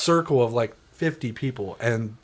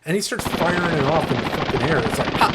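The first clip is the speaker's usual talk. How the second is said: usual speaking voice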